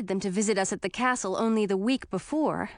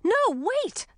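urgent cry. Acted. Princess stops spell.

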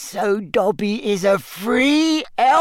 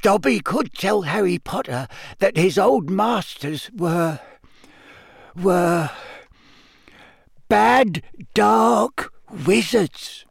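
hesitant elf voice; 2 semitones higher than usual. Acted. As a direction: dare to say it. Daring confession.

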